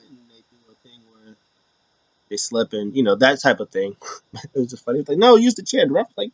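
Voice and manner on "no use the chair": mock Dom urging.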